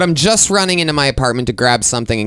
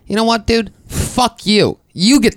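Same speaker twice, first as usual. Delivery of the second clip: mock snapping back; 10 semitones higher than usual. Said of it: "I go".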